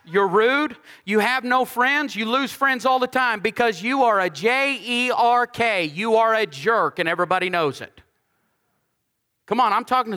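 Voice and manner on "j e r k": J E R K spelled out letter by letter. Real, not acted. Preacher to the congregation, spelling out J E R K.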